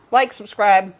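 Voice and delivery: talking with a mouthful; mouth full. Real, not acted. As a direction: speak around a bite of food. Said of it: "I'm totally talking with my mouth full".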